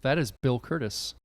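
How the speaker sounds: flat monotone robot voice; monotone, no word stress. Pretend. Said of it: "most monotone possible voice I could come up with".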